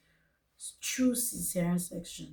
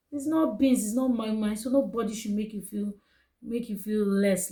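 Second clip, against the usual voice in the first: firm emphatic encouragement; 3 dB louder than usual. Real, not acted. Encouraging other mothers, emphatic.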